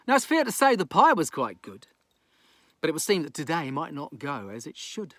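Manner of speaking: lilting bedtime storyteller; gentle sing-song reading of a rhyme; bedtime story narration. Acted. Reads bedtime rhyming story.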